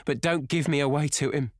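high, pleading whine; whining. A narrator's reading. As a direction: beg with a whine. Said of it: "she whined".

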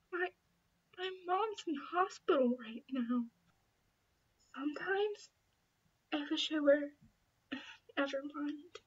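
quiet sad voice. Acted. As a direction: trail off in sorrow. Sad confession about mom.

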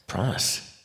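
breathy, hushed coaxing to draw her in; coaxing whisper. Acted. Vampire lures the hunter toward the bars in a hushed whisper. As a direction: whisper it like bait, slowly.

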